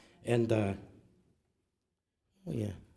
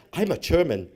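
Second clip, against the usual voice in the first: higher, proud mock German accent; 3 semitones higher, 4 dB louder than usual. Grandchild proudly answering the teacher, German accent. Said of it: "I even had an accent".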